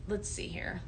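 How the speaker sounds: soft whispered aside; whispered to herself. Real, not acted. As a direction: breathe it to yourself while looking. Searching to herself on live.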